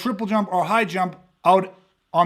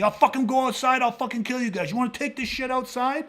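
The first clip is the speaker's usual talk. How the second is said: laughing mock threat; 4 semitones higher, 3 dB quieter than usual. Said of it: "he kept asking me".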